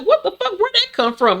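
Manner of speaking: squealed high in disbelief; high incredulous squeal; stunned. Retold or imitated. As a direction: shriek it out in total disbelief. Voicing his shocked reaction.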